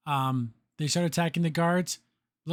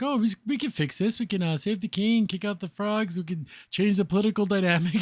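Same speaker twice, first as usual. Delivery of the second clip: higher-pitched, carried-away planning; excited scheming; 4 semitones higher than usual. Retold or imitated. Marcy pitching her plan to fix everything, imitated excitedly. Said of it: "it goes all crazy".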